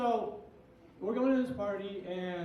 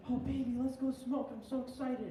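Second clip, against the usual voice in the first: mock excited drunk; 5 semitones higher than usual. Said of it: "she's like".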